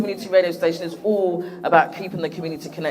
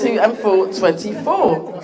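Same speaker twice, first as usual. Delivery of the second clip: bingo caller; slower than usual. Pretend. Repeat of number call.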